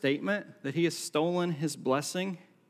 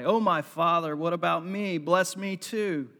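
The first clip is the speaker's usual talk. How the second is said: bitter cry. Acted. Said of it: "he let out a loud, bitter cry".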